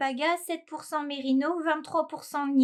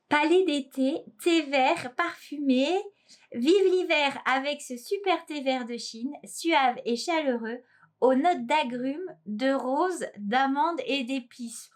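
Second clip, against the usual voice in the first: ad-style label reading; slower than usual. Acted. Reads out tea packet blurb.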